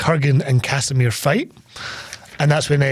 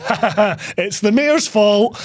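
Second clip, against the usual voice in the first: mock laughing; 5 semitones higher than usual.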